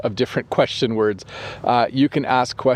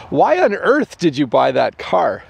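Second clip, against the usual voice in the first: mildly surprised, leaning on "on earth"; mock surprise at a brother's pricey car; surprised emphasis; 4 semitones higher than usual. Shown as a demonstration. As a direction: ask it in real disbelief. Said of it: "if you're actually surprised and you want to add a little bit of emphasis".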